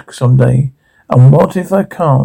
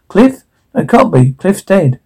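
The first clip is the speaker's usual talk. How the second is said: sharply higher, shocked question; hearing a dead friend's voice, stunned and high; stunned disbelief; 4 semitones higher than usual. Acted. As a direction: gasp out the name in disbelief. Shocked at recognizing his voice.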